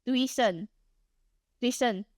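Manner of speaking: tuition squashed short, like CHOO-shun; Singaporean pronunciation. Shown as a demonstration. Streamer showing chat how Singapore says it, tuition squashed into tyoo-shun. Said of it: "how we call it tuition was".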